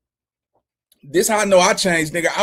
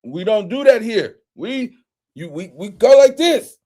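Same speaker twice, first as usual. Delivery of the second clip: alarmed protest; 5 dB louder, slower than usual. Retold or imitated. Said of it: "I said".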